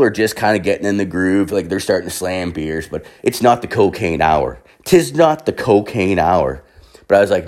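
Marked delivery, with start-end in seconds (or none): 4.8-6.6 slow, stately 'tis; mock-grand, measured declaration; mock-formal pronouncement. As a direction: proclaim it slowly like old-time verse. Mock-formal repeat of the line.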